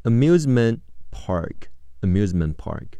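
"amusement park" with the final t of amusement held back, unreleased; silent t in amusement. Shown as a demonstration. Teacher demonstrates amusement park for listening, t unreleased. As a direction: say "amusement park" without popping the t of amusement. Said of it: "t失去爆破，不读出来".

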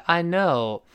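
slow apology, "know" long and falling; sorry husband, stretched key words; apologetic. Shown as a demonstration. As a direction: draw out the apology and slide down. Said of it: "最后声调滑下来".

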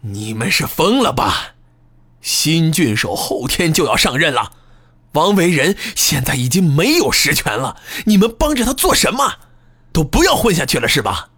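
high, fast berating; angry scolding. Acted. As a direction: berate them furiously. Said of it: "继续骂道".

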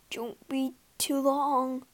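hint of nerves, gulping; nervous plea, lightly voiced; mild nervous gulp. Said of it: "gulped Simpkins".

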